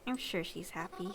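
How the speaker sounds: a lightly voiced old lady murmuring it to herself; old lady, softly. The grieving mother reassures herself about her daughter, softly. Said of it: "Old lady time".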